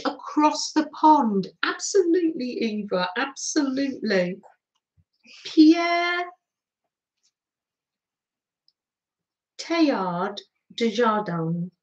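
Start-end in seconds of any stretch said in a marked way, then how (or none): 5.5-11.7 a half-hearted try at a French accent, the name drawn out slowly; French accent, gamely attempted but not quite right; shaky French accent. Real, not acted. Host reading the quote's author on stream, in a weak French accent. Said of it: "not that it's in a very good French accent".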